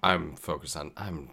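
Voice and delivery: tired, barely awake mumble; sleepy. Real, not acted. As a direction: talk like you can barely stay awake. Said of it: "barely awake".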